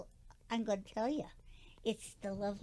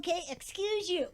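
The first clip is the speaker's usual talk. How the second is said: cheeky laughing reply; 4 semitones higher, faster than usual. Acted. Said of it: "No, I said just say".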